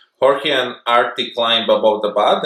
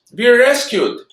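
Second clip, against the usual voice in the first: excited; 11 semitones higher than usual. Acted. Cheering at rescue.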